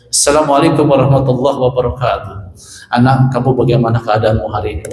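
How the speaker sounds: put-on stiff, formal speech-style greeting to a child; a mock speech voice, formal and stiff; like giving a speech. Shown as a demonstration. Preacher showing the wrong way to greet a child, stiff like a speech. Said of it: "kayak lagi pidato jadinya".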